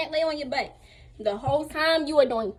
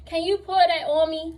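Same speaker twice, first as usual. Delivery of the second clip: higher-pitched retold request; imitated urgent plea; 5 semitones higher, 4 dB louder than usual. Overheated patient begging for water, pleading. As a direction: act out an overheated, needy plea.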